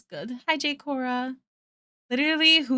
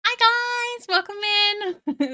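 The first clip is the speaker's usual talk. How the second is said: excited greeting; 12 semitones higher, much slower than usual. Real, not acted.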